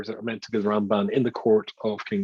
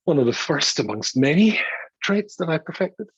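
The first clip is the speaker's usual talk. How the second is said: mock boast; 3 semitones higher than usual. Real, not acted. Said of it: "No, joking".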